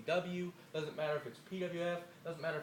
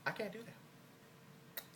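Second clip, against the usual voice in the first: slow, much softer whisper to himself; 3 semitones higher, 10 dB quieter, much slower than usual. Real, not acted. Catching himself mid-threat, a slow hushed whisper. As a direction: pull back and breathe it out. Suddenly stops his own threat.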